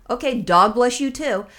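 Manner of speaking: slow, deliberate "dog" in place of "God"; dog instead of God. Retold or imitated. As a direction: slip in "dog" where "God" would be. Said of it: "every time he says God, I'm saying dog".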